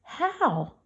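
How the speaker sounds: high, bewildered questioning; dazed disbelief. A narrator's reading. Girl to an invisible boy, trying to grasp it, dazed. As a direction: ask it dazed, pitch lifted, slowing at the end. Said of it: "Looking sort of dazed".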